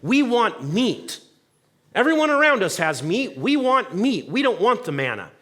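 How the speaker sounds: whiny complaining. Retold or imitated. Israelites complaining in the desert, mock whining. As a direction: whine like spoiled children. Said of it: "complaining and whining and saying".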